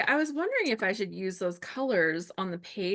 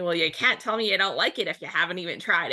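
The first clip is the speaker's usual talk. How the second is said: quoting dad; 6 dB louder, faster than usual. Retold or imitated. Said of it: "He was always telling me".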